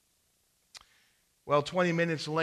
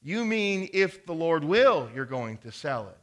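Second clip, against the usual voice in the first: louder, higher correction; correcting; 3 semitones higher, 7 dB louder than usual. Acted. Farmer correcting his neighbor, louder and pointed. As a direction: set him straight on Lord's will. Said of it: "corrects the farmer".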